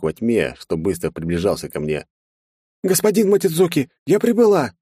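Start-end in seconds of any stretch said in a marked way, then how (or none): 2.8-4.7 very high, bright assistant voice reporting; an eager suit AI arriving; robot helper. Acted. Carol reports arrival to her master, very high and eager. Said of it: "произнесла Кэрол".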